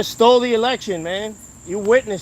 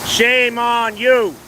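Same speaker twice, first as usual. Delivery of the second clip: slow shaming; 3 semitones higher, much slower than usual. Real, not acted. Shaming a passerby.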